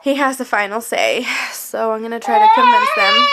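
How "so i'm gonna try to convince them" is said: emotional. Real, not acted. Emotional about surgery.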